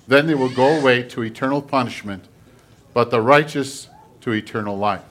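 measured, emphatic public reading; scripture reading. Acted. Pastor reading scripture to the congregation, solemn proclamation. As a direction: read scripture out firmly to the congregation.

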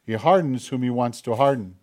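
measured, formal Bible reading to the congregation; scripture reading. Acted. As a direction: read it out like a lector. Reads scripture aloud.

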